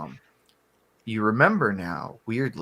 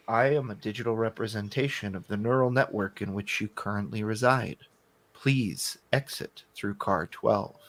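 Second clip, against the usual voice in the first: ethereal voice; 4 semitones lower, 4 dB quieter than usual. Acted. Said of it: "in a very ethereal voice".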